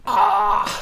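short high unvoiced cry of disgust; pained cry. Real, not acted. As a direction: cry out in disbelief. Aufschrei beim Vorlesen. (gequälter Aufschrei)

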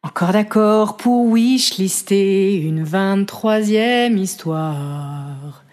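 slow, dramatic slam poem recital. Acted. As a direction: declaim each line like a stage poet. Recites her poem over music.

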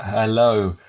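lightly voiced impression, breaking into laughter; a half-hearted put-on voice, chuckling through it; mock another man's voice while giggling; Ian's real voice. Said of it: "How does Ian sound?".

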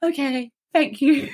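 high, slow thanks through a laugh. Retold or imitated. Thanking the kind officers in the van, laughing. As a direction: chuckle as you say it.

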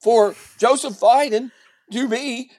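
mock-condescending news anchor explainer; lightly patronizing, emphatic lecture; Wolf Blitzer. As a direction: spell it out for a moron, slowing down. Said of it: "he talks to you like you're a moron".

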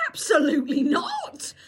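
slow, loud, indignant retort; annoyed refusal. Retold or imitated. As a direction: refuse flatly, leaning on each word. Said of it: "And I was annoyed, actually".

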